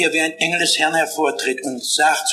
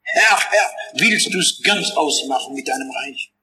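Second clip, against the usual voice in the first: crying out to God. Acted. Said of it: "schrie zum Herrn".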